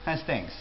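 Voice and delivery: has things: how's said like has, clipped; quick clipped has things. Shown as a demonstration. Teacher shows his favorite greeting, how's said as has. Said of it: "my personal favorite".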